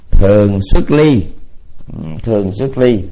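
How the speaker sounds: slow, firm dictation; measured note-taking pace; dictating. Real, not acted. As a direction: give each word time to be written. Dictates third item for note-takers.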